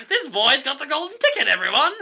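high-pitched crowd-rousing call; mock announcement. Strange lady tells the crowd about the boy, mock proclamation.

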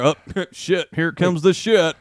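slightly slowed, silly text-reading voice; mock texting accent. Friend teases about the text before getting together, mock accent. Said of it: "Do you read my text in that accent?".

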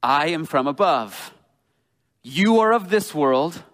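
slow and deliberate, each line weighed; slow, earnest. Retold or imitated. Pastor voicing Jesus to the Pharisees, slow and deliberate. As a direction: press each phrase slowly home. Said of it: "talking real slowly as he says".

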